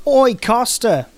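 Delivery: rejected first take of Abby calling out; loud drawn-out call to Costa, wrong voice; first try at Abby. Acted. GM tries a voice for Abby, calling up to Costa. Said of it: "That's not her voice".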